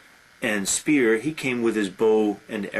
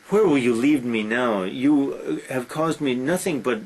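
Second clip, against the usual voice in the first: mildly raised, indignant retelling of Helen; angry retort. Retold or imitated. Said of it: "Helen is angry at Aphrodite".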